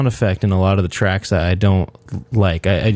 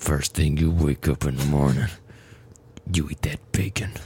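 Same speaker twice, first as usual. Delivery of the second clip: menacing, low, hushed killer voice; 6 semitones lower, 7 dB quieter than usual. Redoing the same line in a new voice for a co-host, sounding like a murderer. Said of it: "Now you sound like a murderer".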